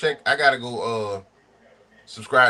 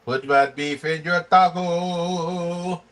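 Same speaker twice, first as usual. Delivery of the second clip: slow movie quote; 2 semitones higher, much slower than usual. Retold or imitated. Movie quote repeated slowly.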